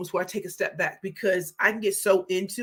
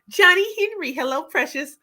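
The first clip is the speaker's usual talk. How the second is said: excited; 8 semitones higher, 5 dB louder than usual. Real, not acted. Greeting a viewer on stream.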